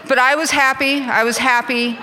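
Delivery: sheepish laughing admission. Real, not acted. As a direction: giggle out the confession.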